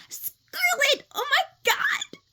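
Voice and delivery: Clover's voice as done for her brother; very high Clover voice. Shown as a demonstration. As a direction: pitch way up like an excited kid. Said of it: "she's, like, really up here".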